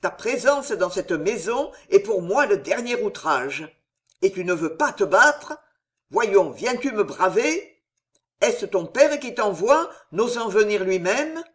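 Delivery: angry threat. Acted. Old captain threatens Henri.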